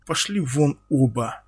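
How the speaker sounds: plain reading voice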